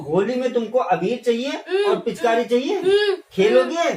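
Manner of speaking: fighting back tears while promising toys; choked-up father; tearful. Acted. Father comforting crying child.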